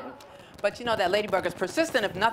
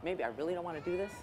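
much softer, quick, thinking it over; quiet inner thought; 2 semitones lower, 9 dB quieter, faster than usual. Acted. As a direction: say it to yourself, second-guessing. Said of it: "is thinking".

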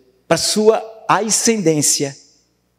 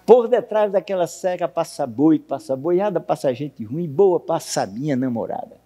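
recited verse. Shown as a demonstration. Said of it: "que é essa aqui".

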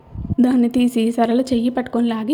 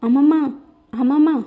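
shouting; 3 semitones higher than usual. Acted. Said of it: "అని అరుస్తూ ఉంది భార్గవి".

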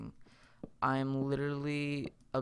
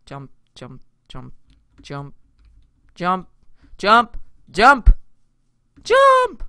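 building to frantic shout; 5 semitones higher, 16 dB louder, slower than usual. Pretend. Urging the jump, escalating.

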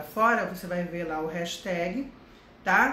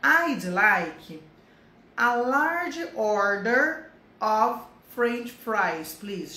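"I'd like a large order of French fries, please" said very slowly and loud; slow model sentence; 2 semitones higher, 4 dB louder, much slower than usual. Shown as a demonstration. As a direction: spell out each word for learners. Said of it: "use e abuse do please".

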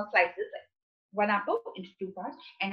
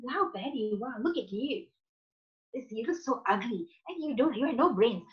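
harsh negative words; 2 semitones higher, 4 dB quieter than usual. Retold or imitated. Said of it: "I said, like".

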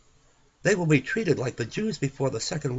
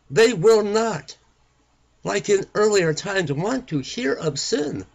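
fervent preaching; 4 semitones higher, 4 dB louder than usual. Acted. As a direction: drive it home from the pulpit. Preacher building to full force.

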